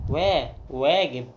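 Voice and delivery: slow open "wa" in "وا", carried into "واجب"; model for repeating. Shown as a demonstration. Teacher has pupils repeat after her, slow open "wa" in "وا، واجب". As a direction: draw out "وا، واجب" syllable by syllable. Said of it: "قولوا مع، قولوا ورايا".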